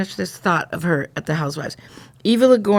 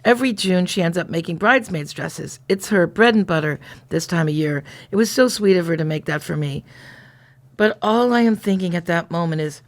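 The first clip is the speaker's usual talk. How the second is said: measured, pausing first-person reading; story narration. A narrator's reading. Reflecting on bubby's gift and a guilty thought, in a narrating voice. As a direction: read it aloud as a story, sentence by sentence.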